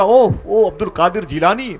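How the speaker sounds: high, loud oh of recognition; surprised recognition. Retold or imitated. Scholars recognising the name, surprised and high. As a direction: react as if the name rings a bell.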